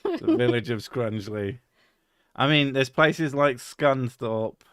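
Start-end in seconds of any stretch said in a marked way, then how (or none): 0.0-1.6 mock grand announcer. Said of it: "That's a village".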